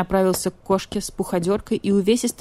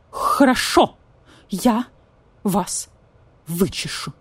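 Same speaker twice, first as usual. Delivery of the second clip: vulture voice; 2 semitones higher, slower than usual. Acted. Vulture promises to comb the cat, grudging. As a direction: spit out the promise reluctantly.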